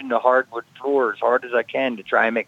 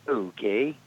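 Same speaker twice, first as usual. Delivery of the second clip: stunned okay; 2 semitones lower, 8 dB quieter than usual. Retold or imitated. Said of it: "the only thing I could say was".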